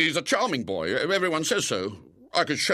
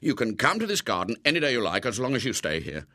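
anxious pleading; faster than usual. Acted. Frightened man begging William.

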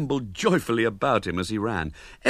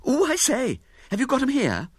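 put-on impressed little girl. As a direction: coo with envy. Girl excited, voiced high.

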